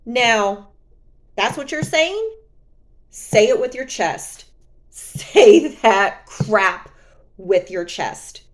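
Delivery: loud okay, then a slow laughing Say that crap; taunting an ex to say it with his chest; sassy challenge. Retold or imitated. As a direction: dare him, drawn out and laughing. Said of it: "And I said".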